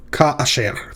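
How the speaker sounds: Ka asher as three clear parts; syllable count. Shown as a demonstration. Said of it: "three syllables".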